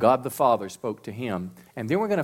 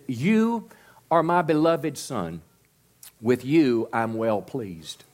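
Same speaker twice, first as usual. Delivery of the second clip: reverent voice of God; slower than usual. Acted. Reciting God's words to Jesus.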